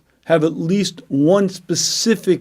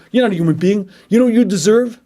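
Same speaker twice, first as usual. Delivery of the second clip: hammed-up angry threat; acted menace; 3 semitones higher, faster than usual. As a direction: spit it at them like a threat. Voicing the angry self.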